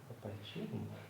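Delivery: quiet, tender father's voice; soft tender reassurance. Real, not acted. Father soothing his baby, quiet and tender.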